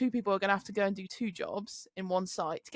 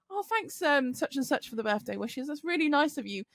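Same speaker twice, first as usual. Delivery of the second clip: polite thanks; 6 semitones higher than usual. Retold or imitated. Retelling thanks amid the row.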